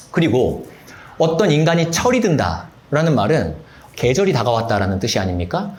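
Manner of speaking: ordinary delivery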